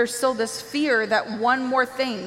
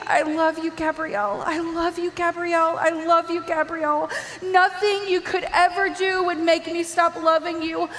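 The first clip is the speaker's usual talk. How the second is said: Jesus, tearful love; 5 semitones higher than usual. Retold or imitated. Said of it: "And he's saying".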